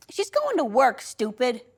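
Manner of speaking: lightly acted exasperated older sister; scornful sister. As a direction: put the little sibling straight, dropping on the insult. Sister scornfully corrects the child.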